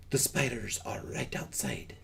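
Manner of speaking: hushed warning whisper. Acted. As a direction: whisper so spiders won't hear. GM warns of nearby spiders.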